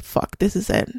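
hushed, breathless whisper of dread; whispered realization in the ER waiting area. Retold or imitated. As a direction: whisper it as the truth sinks in. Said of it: "And I'm like".

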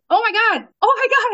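high, rising shocked oh my God; retold stunned delight; excited disbelief. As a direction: lose it over the news. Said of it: "I start, like, crapping my pants".

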